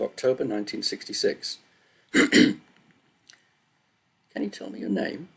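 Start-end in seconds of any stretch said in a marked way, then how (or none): 2.1-5.3 put-on German accent, pitched higher and lifted; a hint of a German nurse asking gently; thick German accent. A narrator's reading. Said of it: "in a thick German accent".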